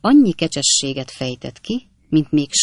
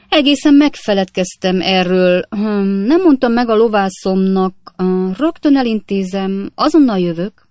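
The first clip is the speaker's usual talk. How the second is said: higher, louder flustered patter; a rogue scrambling to escape; hasty excuse; 4 semitones higher, 6 dB louder than usual. A narrator's reading. Jingle making excuses to the hostess, flustered hurried patter.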